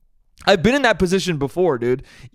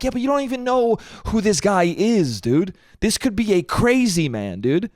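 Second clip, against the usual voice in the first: higher-pitched, incredulous pushback; exasperated protest; 5 semitones higher than usual. Retold or imitated. To girlfriend about group chat poison rumor, exasperated protest. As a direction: argue it with swooping, worked-up pitch.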